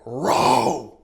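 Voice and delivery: sudden loud barked command; a raft guide yelling the one word over the rapids; guide's shout. Retold or imitated. Guide to paddlers, loud shouted order. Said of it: "her voice, her inflection changed".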